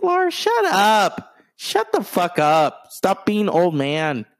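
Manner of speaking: drawn-out, high, fed-up yell; exasperated shout at the drummer. Retold or imitated. Annoyed fan yelling at the drummer to stop talking. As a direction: tell the drummer to shut up, slowly and high. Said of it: "sometimes it's like".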